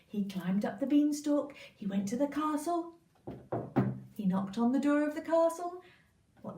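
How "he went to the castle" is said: ordinary delivery, nothing marked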